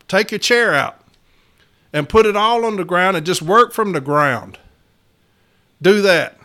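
barking orders at HR in the retelling; retold angry orders. Steward tells management to work from the floor, heated and loud.

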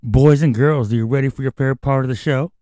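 put-on kids show host hyping the crowd; fast, bright children's host call; overbright kids party host.

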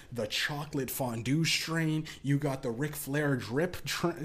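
ordinary delivery

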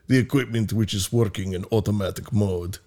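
lightly put-on Russian accent. Reading the spokesman's quote in a faint Russian accent. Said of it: "I should do this in a Russian accent".

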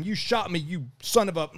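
mild reenacted outrage; retold angry swearing. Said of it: "I just started swearing at him".

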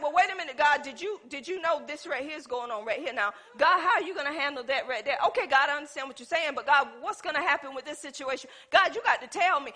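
fast, laughing questioning of God; quick, nervous mock bargaining with God; doubting prayer. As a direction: rattle off worried questions with a chuckle. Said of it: "I'd be like".

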